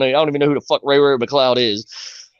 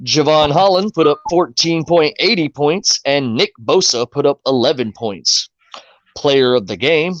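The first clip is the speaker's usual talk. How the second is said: recap read. Acted. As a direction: read the stats like a sportscaster. Reads the fantasy recap aloud.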